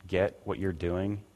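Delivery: scornful judgment. Retold or imitated. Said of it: "judges them, saying".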